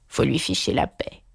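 breathless whispered frog; out of breath. A narrator's reading. Frog pants after kicking the door, breathless. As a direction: pant it after the kick. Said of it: "toute haletante".

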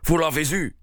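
eager outburst, a touch high; excited cry. A narrator's reading. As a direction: cry it out eagerly, without full shouting. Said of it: "cria-t-il en empoignant Holmes".

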